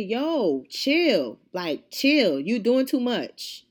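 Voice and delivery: emphatic, drawn-out scolding; mildly exasperated retold rebuke; retold telling-off. Retold telling off of yelling customer.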